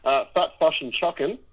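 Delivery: put-on light New Zealand accent on fish and chicken. Co-host in a New Zealand phone box, lightly Kiwi accent. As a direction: say "Fat, Fush and Chuckin'" with Kiwi vowels, fish as fush, chicken as chuckin. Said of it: "you got the accent down pat already".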